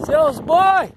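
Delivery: loud high call at animals; shouting at cattle. Real, not acted. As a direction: shoo the cattle away. (gritando com o gado)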